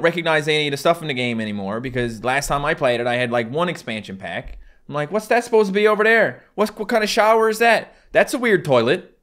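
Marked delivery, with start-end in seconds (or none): 5.1-9.2 higher, louder baffled questioning; mock bafflement. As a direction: act out being thrown by strange new objects. Acts out his baffled reaction in game.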